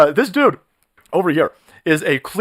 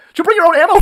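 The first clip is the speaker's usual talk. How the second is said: mock official voice; 11 semitones higher, 6 dB louder, faster than usual. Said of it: "They're gonna turn around and go".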